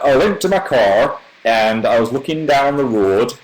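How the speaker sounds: northern English accent, R's sounded and O's altered. Shown as a demonstration. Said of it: "there's a lot more R's".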